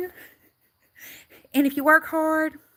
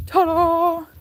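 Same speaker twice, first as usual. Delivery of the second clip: showy ta-da; 6 semitones higher, 6 dB louder than usual. Real, not acted. Unveils the car to viewers.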